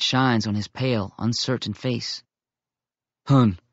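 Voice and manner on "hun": a touch of a grunted growl; understated hostile grunt; mock growl. Bear Meat grunts at the intruding boy, mildly gruff. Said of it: "Bear Meat growls".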